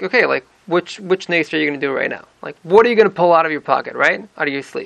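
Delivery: casual, unpanicked questioning; matter-of-fact query. Acted. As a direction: ask offhandedly which trick comes next. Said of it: "It was more kind of like".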